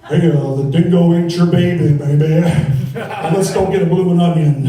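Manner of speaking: put-on loud Vegas-style singer impression in an Australian accent. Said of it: "my impression of Australian Elvis".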